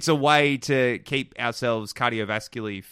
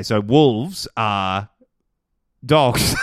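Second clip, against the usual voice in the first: halting, then a shouted last word; slow start, then blurt it out loud; blurted answer; 5 dB louder, much slower than usual. Pretend. Fumbling explanation to the alien.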